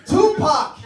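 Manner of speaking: high, loud fan shout; starstruck fan. Retold or imitated. Mock fan shouting a star's name in China. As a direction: yell the name like a thrilled fan. Fans mistaking him for stars.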